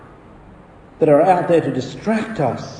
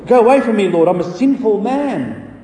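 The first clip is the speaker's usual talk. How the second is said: higher-pitched, mildly panicked pleading; panic-stricken plea; 5 semitones higher than usual. Acted. Peter to Jesus in the boat, mildly panic-stricken. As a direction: beg to be left alone, a touch of panic. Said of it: "Peter was panic-stricken".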